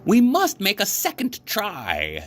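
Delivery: excited frog full of hope; bright, chirpy storybook Frog; Frog's voice. A narrator's reading.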